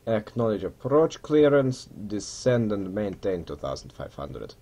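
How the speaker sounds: put-on Russian accent for radio phrases. Pilot acknowledging approach clearance, in a put-on Russian accent. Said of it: "put on a Russian accent".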